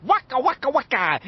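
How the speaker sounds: high, silly catchphrase cry; exuberant clowning. A narrator's reading. Richie showing off to friends, clowning exuberantly. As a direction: toss it out like a comic's gag.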